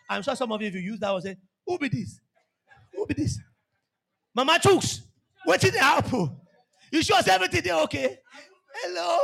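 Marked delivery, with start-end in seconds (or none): 1.7-9.2 confused husband. Retold or imitated. Husband confused by sweet call.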